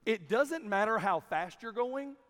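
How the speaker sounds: slow, level retelling of the gate agent's words; "doesnt" eased out gently, no push on any word; calm quoted advice. Retold or imitated. Gate agent gently advising a hurried traveller, slow and calm. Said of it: "He said".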